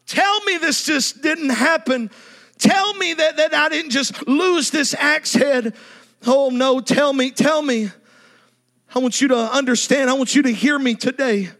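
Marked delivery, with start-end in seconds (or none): 0.1-7.9 desperate pleading. Acted. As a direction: beg to undo the loss. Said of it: "he's thinking".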